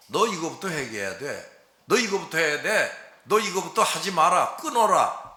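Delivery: stern orders that grow sharper to the final 끊어라; a preacher voicing God, rising to a stern command. Pastor voices God commanding.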